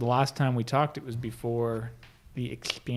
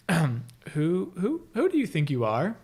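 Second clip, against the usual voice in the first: stumbling over who, higher; stammering question; 4 semitones higher, slower than usual. Retold or imitated. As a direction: struggle to get the question out. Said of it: "Like, trying to ask it".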